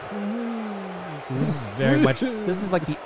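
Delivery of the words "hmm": unimpressed crowd murmur. Retold or imitated. Game master voicing the crowd as the fighter enters, thin hum. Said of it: "the crowd's like".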